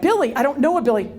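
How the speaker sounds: Billy jumps high in disbelief, then trails down; puzzled Billy. Retold or imitated. Speaker to a mystery caller, puzzled and surprised. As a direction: toss back the name, baffled.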